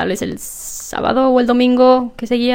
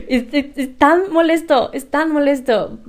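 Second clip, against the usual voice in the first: higher, drawn-out exasperation; frustrated; 5 semitones higher than usual. Real, not acted. Venting about having to clear the throat, frustrated. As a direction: complain slowly, still half amused. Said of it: "es tan frustrante querer hablar".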